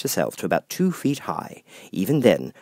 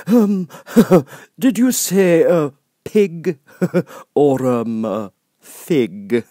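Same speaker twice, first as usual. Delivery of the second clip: grinning Cheshire Cat; 8 semitones higher, 8 dB louder, much slower than usual. Acted. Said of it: "said the cat".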